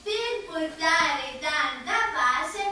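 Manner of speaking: sing-song school poem recital; theatrical swelling poetry reading. Acted. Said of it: "posso recitare la poesia". (recita teatrale di poesia)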